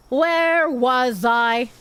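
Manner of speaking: slow, dazed "Where was I?"; slow drawn-out repeat. Shown as a demonstration. Streamer loses her place, asks chat slowly. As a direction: stretch every word out slowly. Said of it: "repeated slowly".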